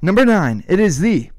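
lightly voiced arena announcer; measured countdown call. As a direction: announce it with a touch of ceremony. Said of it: "we do P A announcer voices".

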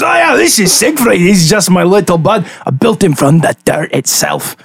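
lightly put-on voice, starting high and settling down; lightly voiced homunculus maker. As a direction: casually introduce a little creation. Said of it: "And he goes".

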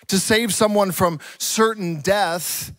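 usual speaking voice

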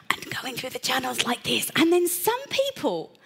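ordinary talk, nothing marked

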